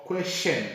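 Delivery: "question" split as k-westen; "question" spezzato in k-westen; wrong question. Shown as a demonstration.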